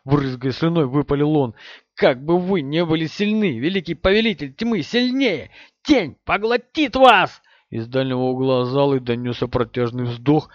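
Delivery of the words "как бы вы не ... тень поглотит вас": rising, high fanatic threat; dark lord fanatic. Acted. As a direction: build to a frenzied high scream.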